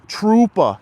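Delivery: put-on loud, high Boston-accented call; punchy mock Boston accent. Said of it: "doing the Boston accent".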